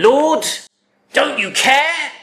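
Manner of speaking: high, loud, indignant challenge; angry outcry. Acted. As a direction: fling an angry accusation at him. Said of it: "She's angry with him".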